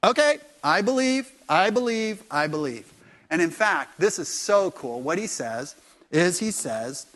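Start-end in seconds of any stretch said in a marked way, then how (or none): 0.0-2.9 eager belief. Retold or imitated. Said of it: "He goes".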